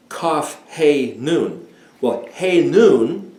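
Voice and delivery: slow letter by letter kaf he nun; naming each letter, slow; spelled out slowly. Shown as a demonstration. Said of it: "spelling of the word".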